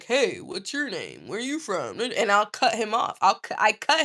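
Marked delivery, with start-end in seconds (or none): 0.0-2.0 a hint of a smug guy; mock guy opener. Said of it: "the guy's like".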